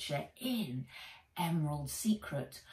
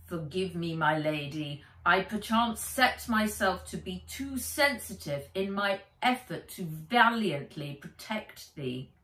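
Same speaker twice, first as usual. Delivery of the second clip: put-on British accent. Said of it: "his voice low, in an accent".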